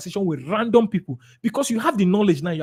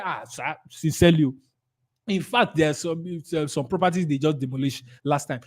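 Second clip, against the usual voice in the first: understated, confiding sympathy; stroking agreement; 2 semitones lower, 4 dB quieter than usual. Acted. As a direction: side with the client sincerely. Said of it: "You are stroking them".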